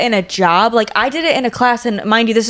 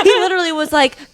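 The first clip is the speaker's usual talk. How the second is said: laughing; 7 semitones higher, faster than usual. Real, not acted. Laughing while retelling.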